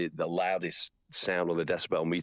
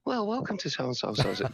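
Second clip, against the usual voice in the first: town crier dropping off; 6 semitones higher than usual. Retold or imitated. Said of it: "and then they go".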